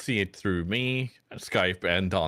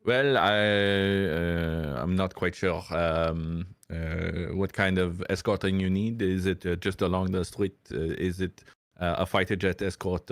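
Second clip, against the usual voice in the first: mock French accent. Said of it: "mangling ... a French accent".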